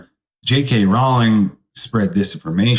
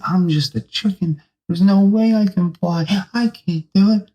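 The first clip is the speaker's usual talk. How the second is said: higher, despairing chicken voice; high chicken voice giving up; high panicky chicken; 9 semitones higher than usual. Acted. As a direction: wail that you can't fly. Chicken panics in free fall.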